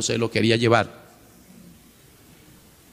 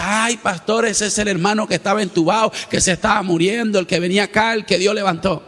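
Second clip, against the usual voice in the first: Carmen; 6 semitones higher than usual. Retold or imitated. Sister Carmen explaining to pastor.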